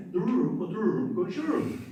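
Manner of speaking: put-on Black Sea Turkish accent, rolled R, "dururum" sing-song. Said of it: "Some people say".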